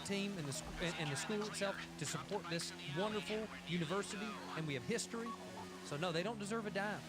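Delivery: lightly voiced pompous alum; pompous booster voice. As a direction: preach like a smug school booster. Playing pompous college booster.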